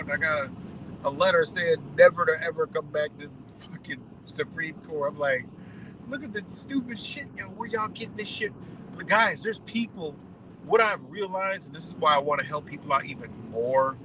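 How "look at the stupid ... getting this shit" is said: exasperated disbelief. Real, not acted. His reaction to bad filings.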